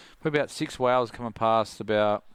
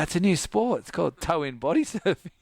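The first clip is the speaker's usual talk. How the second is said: laughing boast; 8 semitones higher than usual. Retold or imitated. Telling Tom Carroll, laughing.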